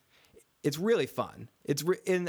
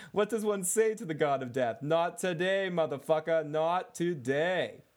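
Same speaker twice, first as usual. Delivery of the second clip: higher, hammed-up reading of the famous line; mock Syrio line; 3 semitones higher than usual. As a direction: deliver the swordmaster's line with mock gravity, stretching the last words. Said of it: "and he says".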